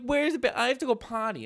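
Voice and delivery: mock needy, high-pitched whine; exaggerated childlike pleading voice; imitated girlfriend. Mimics girlfriend nagging for bathroom.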